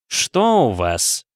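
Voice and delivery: slow stern demand. Acted. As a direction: press her coldly, slowly. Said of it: "Голос метрдотеля звучал теперь уже сурово". (слегка суровый голос метрдотеля)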